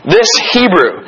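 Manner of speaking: pointed, emphatic contempt; derisive. Acted. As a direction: say it as a put-down, landing on each word. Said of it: "that is a derisive term".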